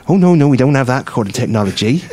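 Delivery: a hint of Maidstone local accent; Maidstone man's accent. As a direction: lightly mimic the Maidstone station man's accent. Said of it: "He genuinely had that accent".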